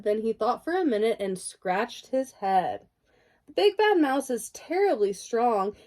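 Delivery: lively bedtime story voice, sing-song rhymes; reading to children. A narrator's reading. Parent reads picture book aloud.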